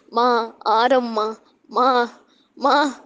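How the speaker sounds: broken, halting call to mother; tearful, unable to speak. A narrator's reading. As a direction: struggle to get each word out, as if crying. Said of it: "உங்களால பேச முடியாம".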